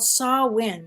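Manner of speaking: "Samhain" said as SAW-win; Celtic pronunciation. Shown as a demonstration. Host naming the ancient Celtic festival, "Samhain" pronounced SAW-win. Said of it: "it's pronounced Samhain".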